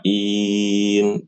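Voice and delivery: "nasta'in" with the ain misread; the wrong "nasta'in" to avoid; wrong reading. Shown as a demonstration. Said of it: "Jangan dibaca".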